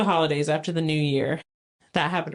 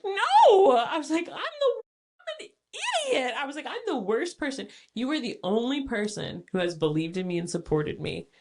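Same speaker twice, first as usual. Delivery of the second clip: mock sobbing; 4 semitones higher than usual. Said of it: "inconsolable sobbing".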